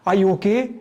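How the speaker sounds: "Are you okay?" with the tune rising on okay; rising intonation. Shown as a demonstration. Teacher demonstrating rising intonation on a yes-no question. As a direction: ask it as a yes-no question, pitch going up at the end. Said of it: "rising intonation होगी".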